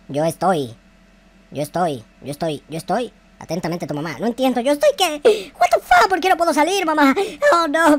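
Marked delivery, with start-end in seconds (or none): 0.1-4.2 low, soft voice reading out a note from mom; low and hushed, as the mother signing off; reading mom's note. Acted. Reading his mother's note to himself, low and soft.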